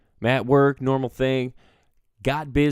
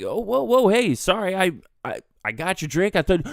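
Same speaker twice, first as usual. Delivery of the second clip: flustered placating; 5 semitones higher than usual. Retold or imitated. Startled bartender placating angry customer.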